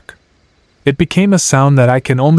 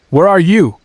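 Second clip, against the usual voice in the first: raised, alarmed question; 7 semitones higher than usual. Acted. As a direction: ask in sudden alarm.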